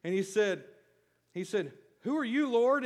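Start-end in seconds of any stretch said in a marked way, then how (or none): 2.0-2.8 questioning Saul. Acted. Re-reading Saul's question, voiced.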